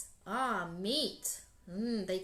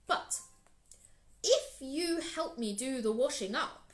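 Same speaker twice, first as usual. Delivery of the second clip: big proud lion; 3 semitones higher, 4 dB louder than usual. Acted. Lion boasts to Anansi about his lunch, loud and grand. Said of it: "said Lion".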